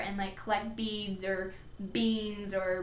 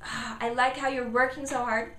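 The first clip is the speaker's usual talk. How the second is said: upbeat encouraging praise; praising parent; 3 semitones higher, 4 dB louder than usual. Shown as a demonstration. Parent praising child's effort, upbeat. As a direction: cheer the child on. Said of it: "praise number one".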